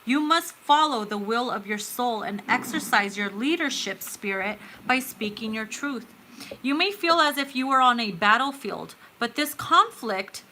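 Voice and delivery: measured, earnest reading of a card message; oracle card reading. Acted. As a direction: read it out like a gentle spiritual message.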